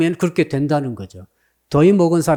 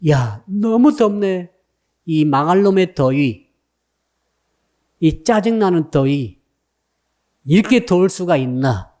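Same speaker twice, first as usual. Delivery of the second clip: slow, drawn-out grumble about the heat; mock complaint, words dragged out; grumbling; slower than usual.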